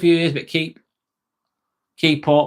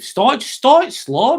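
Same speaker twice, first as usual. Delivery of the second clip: drawn out; 10 semitones higher, much slower than usual. Shown as a demonstration. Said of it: "advising to start slow".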